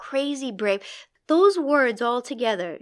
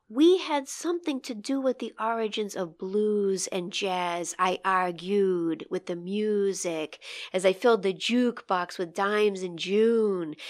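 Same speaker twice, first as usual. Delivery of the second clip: slowed reading; 3 dB quieter than usual. Shown as a demonstration. Host rereads the poem lines to savor their sounds, slowly. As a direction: read slowly, lingering on the open ooh sounds. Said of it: "slow down on those open ooh sounds".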